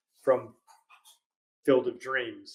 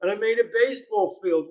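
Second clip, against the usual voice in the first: higher, louder, shouting in frustration; half-hearted outraged shout; exasperated yell; 6 semitones higher, 3 dB louder than usual. Retold or imitated. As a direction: rant it like a fed-up farmer. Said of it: "And he's like".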